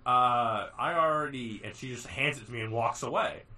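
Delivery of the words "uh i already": puzzled, rising protest; confused protest. Retold or imitated. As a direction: caught off guard, unsure. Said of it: "I'm like".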